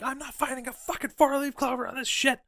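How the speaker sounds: high, exasperated complaint; frustrated. Retold or imitated. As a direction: whine it in fed-up anger. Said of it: "she's like".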